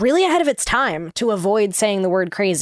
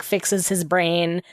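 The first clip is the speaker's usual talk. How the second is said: normal talking voice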